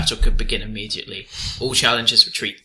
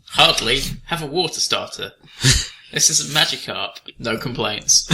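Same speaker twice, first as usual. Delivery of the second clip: bright, cheerful professor greeting; Pokemon professor parody. Acted. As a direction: sell it like a shady professor.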